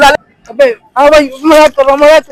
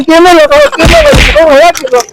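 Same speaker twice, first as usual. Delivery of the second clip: frantic plea; 2 semitones higher than usual. Acted. Vlogger begging crew to film, frantic plea. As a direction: cry out for the camera. Pleading for camera.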